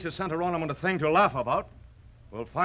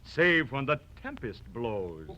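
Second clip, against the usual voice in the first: emphatic. Acted.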